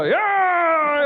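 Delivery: high, drawn-out whoop; mock thrilled yell. First lady sledding downhill, mock-exhilarated.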